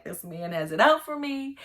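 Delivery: king fearing a trap; panicked king. Retold or imitated. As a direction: freak out as the king. First panicked king quote.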